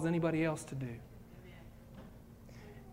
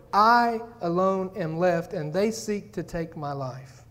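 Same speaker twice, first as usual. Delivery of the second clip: lonely despair; 4 dB louder, slower than usual. Acted. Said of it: "Notice the answer. It hasn't changed".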